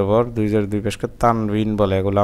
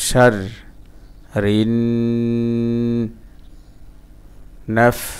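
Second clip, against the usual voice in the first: syllable by syllable. Shown as a demonstration. Teacher breaking a word down for learners, syllable by syllable.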